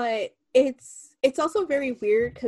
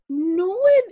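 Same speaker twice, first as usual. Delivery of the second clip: laughing; 9 semitones higher, 5 dB louder than usual. Retold or imitated. Quoted reaction, laughing.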